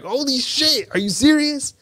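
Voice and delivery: imitating shocked driver. Uber driver hears the score.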